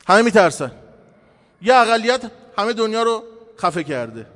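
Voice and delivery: forceful, driving sermon delivery; impassioned preaching. Real, not acted. Preacher warning the congregation how fear silences people, impassioned preaching. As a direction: preach it with mounting insistence.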